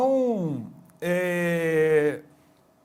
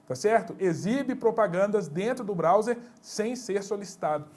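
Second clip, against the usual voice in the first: ordinary talk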